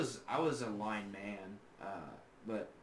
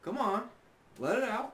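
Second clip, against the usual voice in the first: cheering him on, pitched up; hype friend cheering; 10 semitones higher than usual. Real, not acted. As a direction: egg him on like a hype man. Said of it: "I gotta hype you up".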